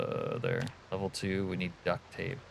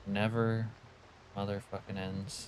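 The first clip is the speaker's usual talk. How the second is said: "Never motherfucking ends" trailing much softer; weary grumble; 6 dB quieter than usual. Pretend. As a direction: drop "motherfucking ends" to a weary near-mutter. Exasperated repeat with expletive.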